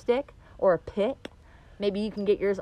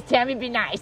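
laughing self-reminder. Shown as a demonstration. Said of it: "My affirmation every day is".

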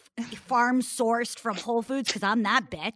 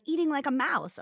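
higher-pitched mocking child imitation; 5 semitones higher than usual. Small daughter mocking her mother, higher teasing voice. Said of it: "she even mocks me".

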